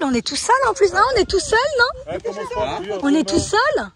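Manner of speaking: bubbly, amazed chatter; excited. Real, not acted. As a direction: marvel that the place is empty. Thrilled to have place alone.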